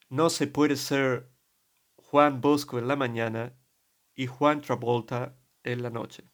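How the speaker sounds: put-on slow Spanish with a British priest's English accent. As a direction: draw the advice out like an English priest. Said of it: "Pongo este acento porque es el que tenía él". (castellano con acento inglés, lento y marcado)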